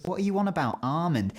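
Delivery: high, baffled challenge; incredulous. Acted. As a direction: demand an explanation in mock disbelief. Mocking the L-less almond.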